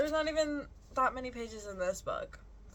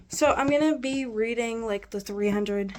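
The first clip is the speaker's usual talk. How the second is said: breathless from the stairs; out of breath talking; 4 dB louder than usual. Real, not acted. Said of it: "sorry I'm out of breath".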